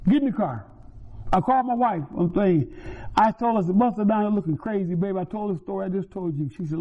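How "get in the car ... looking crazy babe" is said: urgent, raised voice. Retold or imitated. Urgent retelling of the phone call.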